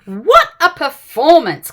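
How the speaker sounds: slow, whispered aside; dry whisper. Acted. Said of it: "commented the worm".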